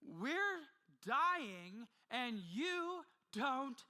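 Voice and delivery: high, loud, anguished reproach; hurt, pleading outrage at a sleeping teacher; desperate accusation. Retold or imitated. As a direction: cry it out like men about to drown. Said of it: "they're saying".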